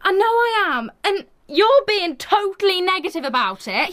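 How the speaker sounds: worked-up protest; heated argument. Acted. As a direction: accuse your best friend, hurt and cross. Heated quarrel between best friends.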